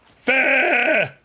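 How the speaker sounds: high put-on cry of fair; silly voice. Streamer answering chat in a high silly voice. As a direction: squawk it in a funny voice. Odd voice exclamation.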